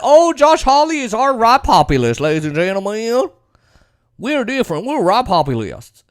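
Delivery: lightly voiced mock cheerleading, starting high; mock political boosters. Supporters proclaim Hawley a populist, mock boosterism. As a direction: announce it like a hammy supporter. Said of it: "they said that".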